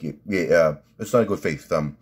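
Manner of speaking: halting mobster impression with a slight lisp; lightly voiced, stammering Sopranos gangster; Silvio Dante. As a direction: imitate a wiseguy searching for the words. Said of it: "Silvio Dante's like".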